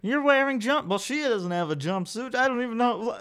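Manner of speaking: a confused onlooker sputtering; flustered bystander. Acted. Crowd man protests.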